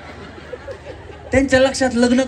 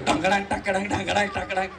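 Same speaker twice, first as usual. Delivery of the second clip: softer rhythmic drum imitation; mouthed drumbeat; 7 dB quieter than usual. Shown as a demonstration. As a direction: beat out the drum with the voice. Host vocally imitates drum beats.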